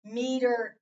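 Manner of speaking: slow, each letter drawn out with a rising tune; slow card reading. Shown as a demonstration. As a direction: read each card slowly, stretching every vowel name. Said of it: "let me go over the cards again just to remind you".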